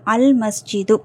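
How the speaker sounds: "அல் மஸ்ஜிது" with L clearly sounded; careful model "அல் மஸ்ஜிது", full L; lam pronounced. Shown as a demonstration. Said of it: "லாம் உச்சரிக்கப்படணும்".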